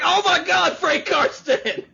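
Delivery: high fanboy squeal breaking into laughter; retold starstruck outburst; geeking out. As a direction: gush in a high voice, stretching out the name. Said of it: "That was the point where I geeked out".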